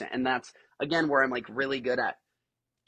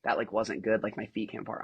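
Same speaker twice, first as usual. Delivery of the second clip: low, deflated self-criticism; disappointed; 5 semitones lower than usual. Retold or imitated. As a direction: imitate an athlete let down by herself. Athlete voiced, disappointed in herself.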